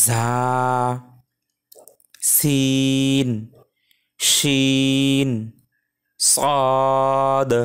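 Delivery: Arabic letters named one at a time, long vowels as in "জিম" held steady; letter-by-letter recitation. Shown as a demonstration. Teacher reading the default letters for students, slow drawn-out recitation. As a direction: recite "আলিফ, বা, তা" slowly, each letter drawn out and set apart. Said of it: "আমরা একটু উচ্চারণ করি".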